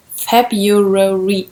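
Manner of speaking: February said slowly and carefully, each syllable spelled out as /fɛbjuɹoɹi/; careful pronunciation. Shown as a demonstration. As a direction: sound out February deliberately, like a learner. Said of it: "so difficult for us Germans to pronounce it".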